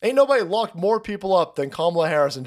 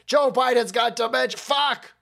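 panicked aides; 5 semitones higher than usual. Retold or imitated. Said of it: "his aides were like".

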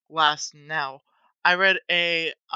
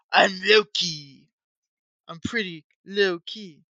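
sly Loki; slower than usual. Retold or imitated. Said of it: "Norse gods ... kinda like".

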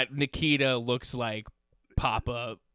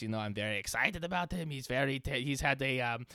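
reading from a script. Retold or imitated. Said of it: "He goes, it's like he's reading from a script".

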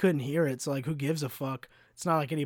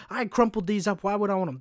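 higher, mildly exasperated mock complaint; indignant griping, raised pitch; retold freak-out; 5 semitones higher, 3 dB louder than usual. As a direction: imitate a customer freaking out. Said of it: "He's freaking out".

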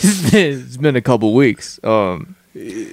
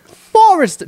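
high-pitched mock Boston accent; 4 dB louder than usual. Shown as a demonstration. Showing his friend the slip, hammed-up Boston accent. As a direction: throw the word out in exaggerated Bostonian. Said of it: "I almost did a Boston accent".

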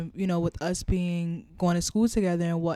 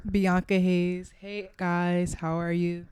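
telemarketer voice; slower than usual. Acted. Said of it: "That's, that's her telemarketer voice".

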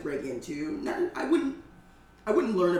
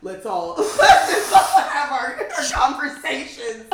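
high, loud, laughing crowd impression; slowly mock a chattering audience; hammed-up audience chatter, pitched high; mock rude audience; 9 semitones higher, 11 dB louder, slower than usual. Mimicking chatty rude audience members.

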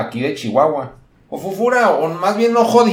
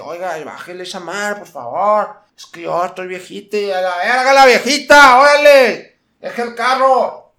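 put-on fussy old lady, rising to a higher, louder complaint; upset old lady; 4 semitones higher, 4 dB louder than usual. Old lady complaining to car-wash boys about loud music, upset. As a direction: play the rattled old señora scolding. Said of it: "se alteraban de que".

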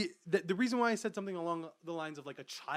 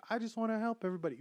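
quoting Vegapunk; 7 semitones higher, much faster than usual. Retold or imitated. Childlike Vegapunk voiced.

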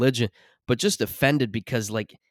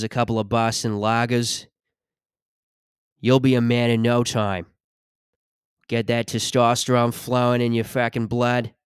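put-on a light Boston accent on a tough guy, slowed; a tough guy in a mild Boston accent, telling him to drop the lady stuff. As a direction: talk like a Southie bro lecturing a softie. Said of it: "a, like, a Boston thing?".

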